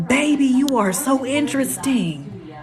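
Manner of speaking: impressed drawl. Real, not acted. Reacting to caller's chart, slow.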